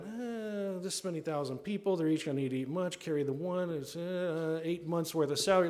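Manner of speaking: tally it under your breath as you go; thinking aloud while adding up; doing quick math. Acted. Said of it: "is doing some quick math".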